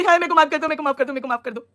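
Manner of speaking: hammed-up begging through mock tears; a mocking impression of someone crying for mercy; mock crying plea. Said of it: "पैर पकड़ के रोने लगी".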